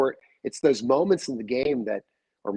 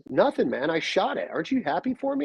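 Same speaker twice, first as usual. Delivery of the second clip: mildly indignant plea, retold; retold protest; 5 semitones higher than usual. Nephew wants uncle's approval, retold protest. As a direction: imitate a nephew's protest, pitch jumping at the end.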